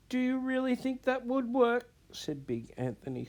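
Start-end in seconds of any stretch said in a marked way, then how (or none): 0.1-1.9 high, tearful hopeful question; sobbing. Acted. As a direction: ask through sobs.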